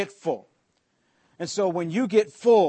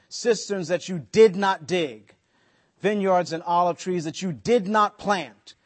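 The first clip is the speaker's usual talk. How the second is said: "did not" set apart and punched in each phrase; stress on "did not". Shown as a demonstration. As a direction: lean on every "did not", falling after it. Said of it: "notice the emphasis here".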